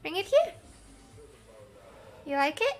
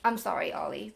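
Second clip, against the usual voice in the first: usual speaking voice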